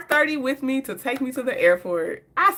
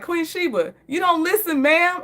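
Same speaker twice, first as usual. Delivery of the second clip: mock show intro; 6 semitones higher than usual. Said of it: "Queen Sheba got that intro".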